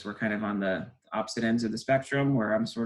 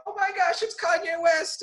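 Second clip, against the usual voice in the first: much higher, squealing fan voice; starstruck shriek; 4 dB louder than usual. Retold or imitated. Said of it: "crying out".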